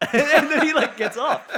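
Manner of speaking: high laughter through the words; laughing. Real, not acted. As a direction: laugh out the ending. Laughing at the story's end.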